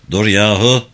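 talking through the teeth, jaw numb; through clenched teeth. Acted. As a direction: mumble with the jaw held still. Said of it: "dişlerinin arasından konuşuyordu".

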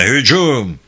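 drawn-out call to charge; battle call. Acted. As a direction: call the troops to attack. Officer orders the charge. (hücum emri verir gibi)

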